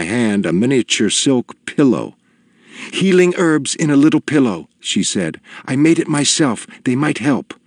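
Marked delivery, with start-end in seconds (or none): 2.9-4.7 higher, eager and pleading; a tearful woman begging a favour; earnest small woman. A narrator's reading. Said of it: "sobbing face". 5.6-7.5 higher, eager and pleading; a tearful woman begging a favour; earnest small woman. A narrator's reading. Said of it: "sobbing face".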